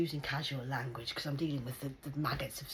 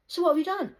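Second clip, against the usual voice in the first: high, loud demanding voice; mock shout; 13 semitones higher, 9 dB louder, faster than usual. Demanding answers from the support worker, loud. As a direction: bark the question at him.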